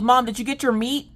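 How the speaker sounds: put-on high child's question; kid voice. Daughter asking mom about her meat, high childlike voice. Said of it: "She goes".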